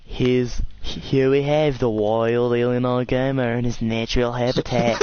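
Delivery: slow, drawn-out documentary narration; playful nature-show voiceover; mock wildlife narrator. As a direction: present him like a rare animal, slowly. Mock wildlife documentary about friend.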